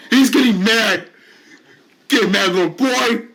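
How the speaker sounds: bully jeering at a patient getting angry; gleeful taunt. Acted. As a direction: crow it out to provoke him. Bully repeats taunt louder.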